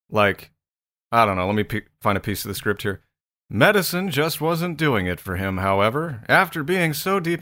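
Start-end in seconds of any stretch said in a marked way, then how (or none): 3.5-7.4 history documentary voice. Shown as a demonstration. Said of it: "history documentary would be more like".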